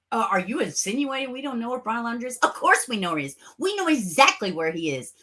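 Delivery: a lightly voiced, fast, annoyed police spokesman; hint of a mocking, irritated officer; irritated official. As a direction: toss it off like an irritated cop at a press conference. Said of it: "he was, like, irritated".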